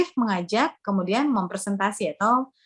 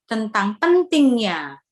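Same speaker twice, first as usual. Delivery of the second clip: PENTINGNYA pressed louder and drawn out; emphasized key word; 3 dB louder, slower than usual. Shown as a demonstration. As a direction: lean slowly and firmly on "pentingnya". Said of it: "tinggikan suara, tapi jangan berteriak".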